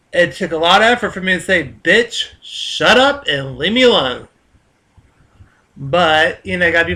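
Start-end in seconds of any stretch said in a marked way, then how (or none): 1.8-4.3 slow, swooping exasperated put-down; exasperated retort. Retold or imitated. Tired worker silently telling off an annoying coworker, exasperated. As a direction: draw out an exasperated comeback.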